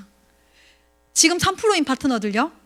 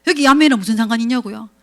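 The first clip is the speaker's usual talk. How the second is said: usual speaking voice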